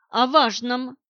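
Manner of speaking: a loud curt bark; snapped. Acted. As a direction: snap it at him to get his attention. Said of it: "рявкнула я".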